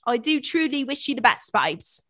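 hammed-up British sign-off, falling on the last word; British accent. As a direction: put on a mock British voice. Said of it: "Not you talking British".

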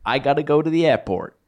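put-on casual American accent, slipped in. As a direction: toss it off in a quick American accent. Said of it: "I did an American accent then".

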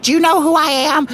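high, fast indignant demand; entitled diva. Retold or imitated. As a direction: play the outraged celebrity. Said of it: "She's like".

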